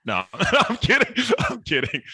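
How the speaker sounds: real laugh breaking into high-pitched words; laughing, joking. Real, not acted. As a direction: laugh off your own joke. Host laughing off his joke.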